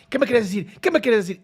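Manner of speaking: loud, confrontational challenge; a loud, hammed-up hostile "what are you saying?"; mock aggressive demand. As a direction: imitate her pushing forward at him. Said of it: "Ahora está violenta hacia adelante".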